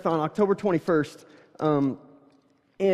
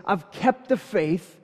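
slow solemn quote; much slower than usual. Retold or imitated. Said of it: "he says".

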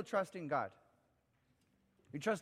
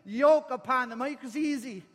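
high, impassioned preached appeal; Jesus; 10 semitones higher, 9 dB louder than usual. Acted. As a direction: call out urgently to the burdened. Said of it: "Listen to the voice of Jesus".

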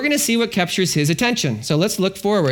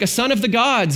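lightly voiced outsider, a touch higher; Gentile way; 4 semitones higher than usual. King naming the fourth man, mildly awed outsider voice. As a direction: say it like an outsider groping for words. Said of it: "in the most Gentile way possible".

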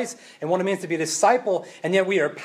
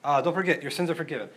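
casual by-the-way tone; afterthought; faster than usual. Pretend. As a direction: toss it over the shoulder. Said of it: "he would say".

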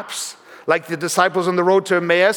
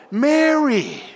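the name grows to a call; 8 semitones higher than usual. Shown as a demonstration. Pastor showing Jesus calling Mary by name, rising call. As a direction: ring out Mary higher, a full call that falls at the end. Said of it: "Do you see how it grew".

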